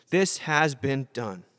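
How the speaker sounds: slow, matter-of-fact statement; indicative voice. Shown as a demonstration. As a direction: state it slowly, simply announcing a fact. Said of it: "news comes in an indicative voice".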